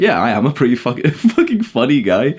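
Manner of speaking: chuckling through the words; laughing. Pretend. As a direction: laugh while saying it. Laughing at own joke.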